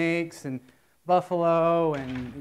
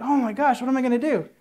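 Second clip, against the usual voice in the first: mock panic; 5 semitones higher, 3 dB louder than usual. Trucker panicking in a joke story.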